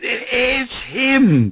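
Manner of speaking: high, slow, awestruck; stunned disbelief. Retold or imitated. Wife at night, handing over the phone, high, slow and stunned. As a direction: breathe it out, hardly believing.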